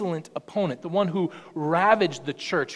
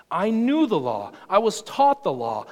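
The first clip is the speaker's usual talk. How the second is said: louder, building devotion; fervent declaration; 4 semitones higher, 6 dB louder than usual. Acted. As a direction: swell each line with love for the law.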